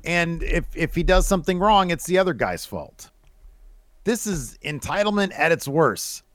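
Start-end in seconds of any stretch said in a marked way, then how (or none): 0.0-3.1 mock the doting parent; entitled parent. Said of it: "one of these parents that".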